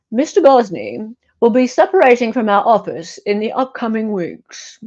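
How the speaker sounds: formal, measured legal read; lawyer voice. Shown as a demonstration. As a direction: read it like a stiff official statement from a law office. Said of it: "I'm gonna read this in lawyer vo-, voice now".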